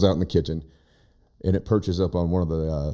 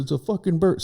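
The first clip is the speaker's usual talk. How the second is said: son's shocked outburst; 11 semitones higher than usual. Retold or imitated. Son's outburst retold again.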